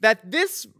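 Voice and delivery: high, slow proclamation voice; town crier. Pretend. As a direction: cry it out like a royal herald. Mock royal proclamation.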